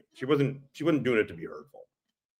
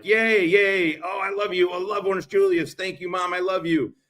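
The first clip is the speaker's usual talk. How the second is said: put-on much higher, giddy little boy thanking mom; gushing kid voice; 9 semitones higher than usual. A young boy thanking his mom for Orange Julius, high and giddy. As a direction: squeal it like a kid promised a treat. Child voice begging for treat.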